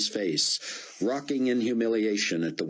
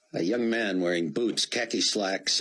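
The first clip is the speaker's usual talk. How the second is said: ordinary delivery, nothing marked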